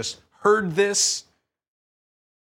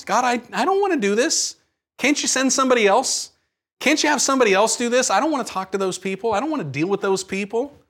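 higher pitched, pleading whine to God; whiny pleading prayer; 4 semitones higher than usual. Acted. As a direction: beg God to send someone else, half-whining. Acted prayer refusing God's call.

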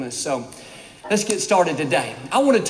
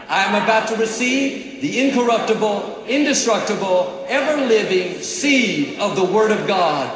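bold declaration. Real, not acted. Pastor leads the congregation in declaring the Bible confession. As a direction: proclaim it like you mean it. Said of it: "Say it like you mean it".

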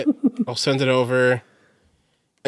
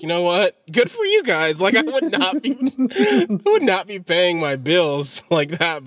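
high mock cheer; 4 semitones higher, slower than usual.

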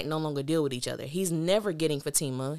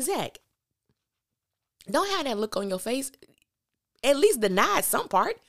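high incredulous scolding; 8 semitones higher, 4 dB louder than usual. Retold or imitated. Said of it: "And I'm like".

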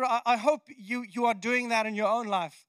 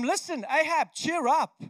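higher-pitched, rousing prophet's announcement; Elijah cheering Ahab; 3 semitones higher, 3 dB louder than usual. Acted. Elijah tells King Ahab to celebrate, rousing. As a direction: call out the good news with energy. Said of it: "he says to him".

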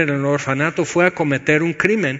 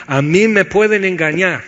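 firm and forceful, stressed on pueden; loud declaration; 4 semitones higher, 5 dB louder than usual. Shown as a demonstration. Preacher repeating the confession, forceful. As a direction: hammer home pueden. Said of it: "Dilo en voz alta".

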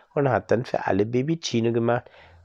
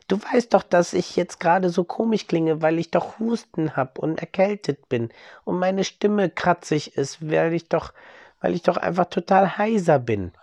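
hoarse; 8 semitones higher than usual. Acted. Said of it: "mit einer heiseren Stimme".

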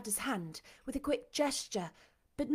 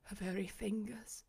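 cried in wonder; 7 dB quieter than usual. A narrator's reading. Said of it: "he cried".

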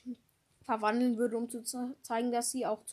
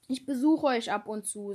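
excited yet dejected; 6 dB louder than usual. Acted. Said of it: "aufgeregt und niedergeschlagen zugleich".

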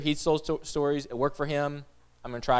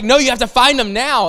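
higher and louder, pressing demand; urgent panic; 6 semitones higher, 6 dB louder than usual. Retold or imitated. Wife urging husband to find kids, panicked urgency. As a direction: insist it must happen now.

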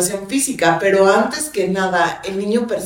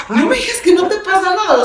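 higher-pitched, acted exasperation; mock disbelief; 7 semitones higher than usual. Woman confronting her tight-lipped partner, mock disbelief. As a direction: call out the denial, half in fun.

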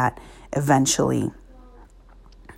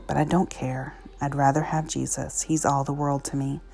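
reading a story aloud; story narration. Acted. Reads an inspirational story aloud.

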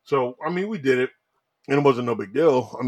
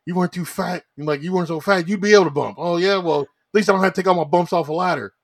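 higher-pitched mock squabble; bickering jabs; 7 semitones higher, 4 dB louder than usual. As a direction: trade petty jabs in a staged spat. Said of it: "making a little jab at each other".

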